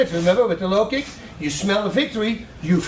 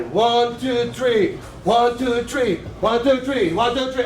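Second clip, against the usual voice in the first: even rhythm; 2 semitones higher, slower than usual. Shown as a demonstration. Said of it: "Make it one rhythm".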